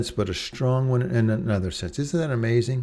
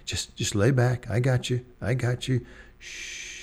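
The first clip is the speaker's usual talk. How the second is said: reassuring lifeguard; 2 semitones higher than usual. Retold or imitated. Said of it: "that lifeguard, will say".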